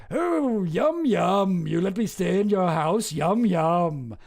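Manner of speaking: hammed-up posh English yum yum; mock posh voice. Streamer mocking the yum yum note in a posh British accent. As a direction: relish it like a smug guest. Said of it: "It's another thing to be like".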